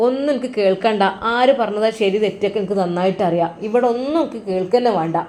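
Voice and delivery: father cutting them off, mildly angry; a bit angry. Acted. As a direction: shut the argument down, a little cross. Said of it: "ഉപ്പ അല്പം ദേഷ്യത്തിലായിരുന്നു".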